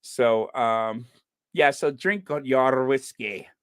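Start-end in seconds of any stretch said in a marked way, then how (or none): 1.9-3.5 put-on light amateur Scottish accent; a hint of rolled-R Scottish. Host repeating Dad's punchline, Scottish accent. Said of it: "let me see if I could do a Scottish accent".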